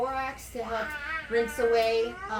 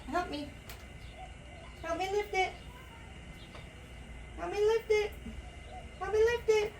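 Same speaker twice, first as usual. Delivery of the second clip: carrying heavy load; 12 semitones higher, 4 dB quieter than usual. Real, not acted. Lifting heavy washer load.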